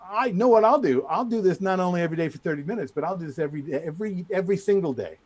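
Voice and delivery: loud, high mock bragging; trash talk. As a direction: rub it in like a cocky rival. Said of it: "trash talking the hell out of him".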